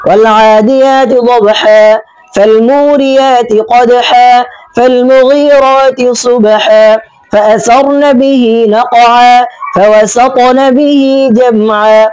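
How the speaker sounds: slow melodic tajweed chanting; measured Quran recitation with drawn-out verse ends; Quranic recitation. Shown as a demonstration. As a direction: chant each verse slowly, stretching the endings. Recites Surah Adiyat.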